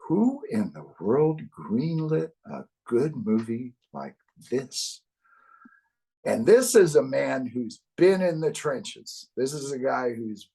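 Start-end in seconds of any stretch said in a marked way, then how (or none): 0.1-5.0 put-on New Jersey accent. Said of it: "he's got a New Jersey accent".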